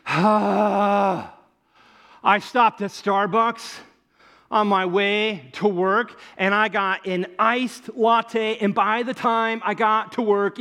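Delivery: slow, drawn-out, sighing self-pity; milk the melted latte like a tragedy; mock lament. Comedian's coworker moaning about melted latte, mock despair. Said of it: "they did this".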